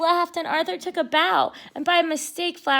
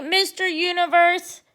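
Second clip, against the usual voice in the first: mocking tease; 5 semitones higher, 5 dB louder than usual. D W mocks Arthur at bedtime.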